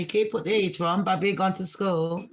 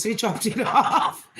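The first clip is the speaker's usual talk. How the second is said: laughing; 3 semitones higher than usual. Real, not acted. Laughing while telling dad story.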